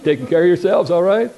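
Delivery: loud, hearty mock-tough greeting; mock manly voice. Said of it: "my most manly voice".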